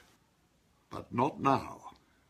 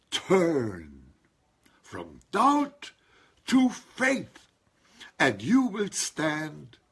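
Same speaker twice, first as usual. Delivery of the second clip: preaching; slower than usual. Acted. Preaching call to faith.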